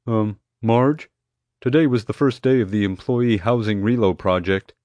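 tentative radio dispatcher voice; hesitant dispatcher. A narrator's reading. Dispatcher reminding guard of the relocation project, hesitant. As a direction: break it to them gingerly.

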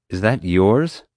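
a touch of a stern demand. Acted. Mom confronting Kyle about the ID card, mildly demanding. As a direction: press for an answer, mildly firm. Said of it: "Mom demanded".

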